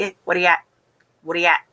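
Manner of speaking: casual Newfoundland greeting, words slurred into one; Newfoundland dialect. Shown as a demonstration. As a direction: run 'what are you at' together like 'whaddya at', Newfoundland style. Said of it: "they would say".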